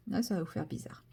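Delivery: murmuré tout bas, sans voix; chuchote-le comme une confidence; whisper. Shown as a demonstration. Même phrase redite en chuchotant. (chuchoté aux spectateurs)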